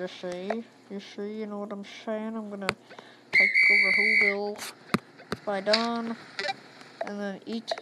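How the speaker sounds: a hint of a scheming Grinch; lightly voiced Grinch plotting, ending low and hushed; Grinch accent. The Grinch boasting of taking over Whoville, light mock Grinch voice. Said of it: "The best accent for the Grinch ever".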